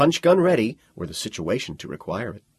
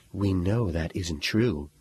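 husky voice; 2 semitones lower, 3 dB quieter, slower than usual. Acted. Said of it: "in a husky, sexy voice".

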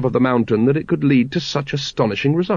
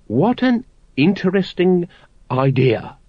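higher, slow, sing-song; trilled; 7 semitones higher, slower than usual. A narrator's reading. Grand Master feigning interest to the brethren, trilling. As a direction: trill it with false delight. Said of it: "he trilled".

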